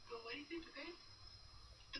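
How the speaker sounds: soft, low suspense question; hushed question. A narrator's reading. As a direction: lean in and ask softly. Question to child listeners.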